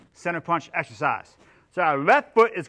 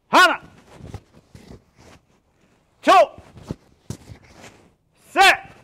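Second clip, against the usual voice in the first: sharp, high martial arts count; shouted drill count; 10 semitones higher, 6 dB louder than usual. Shown as a demonstration. Instructor counting kicks for the class, shouted. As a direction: bark each number out on its own.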